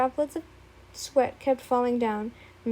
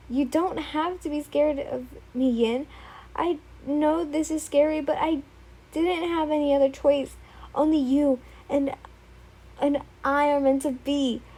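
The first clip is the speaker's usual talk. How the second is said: higher, eerily sweet; creepy devotion; 3 semitones higher than usual. Acted. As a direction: sound lovingly unhinged. Izuku soothing creepily.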